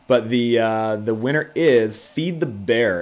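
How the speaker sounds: slow, loud winner reveal; hyped giveaway announcement. Real, not acted. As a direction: savor the name like a prize.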